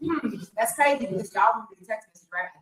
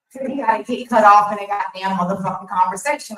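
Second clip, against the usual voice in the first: angry; 2 semitones lower, 6 dB louder, faster than usual. Real, not acted. Angry rant about ex.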